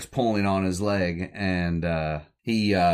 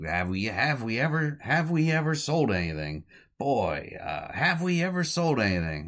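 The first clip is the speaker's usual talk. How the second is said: boastful excitement; 6 semitones higher than usual. Retold or imitated. Boys boast about selling.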